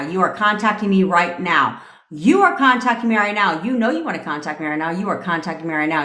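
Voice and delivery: mildly insistent, assured command; commanding, with backbone. Shown as a demonstration. Coach modelling commands to an absent partner, firm backbone. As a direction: give an order with no doubt it will be obeyed. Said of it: "say this with a little backbone".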